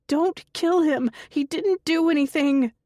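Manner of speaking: high, loud pleading yell; frantic shout. A narrator's reading. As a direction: yell it in a nightmare. Night terror, screaming in sleep.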